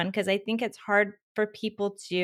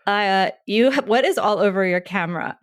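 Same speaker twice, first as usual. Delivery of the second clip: laughing quote; 6 dB louder than usual. Retold or imitated. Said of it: "Sarah was like".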